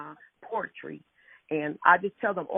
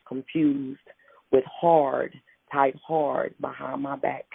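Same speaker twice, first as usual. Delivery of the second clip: poem reading. Acted. Poet reading her own poem to the radio host, measured recital.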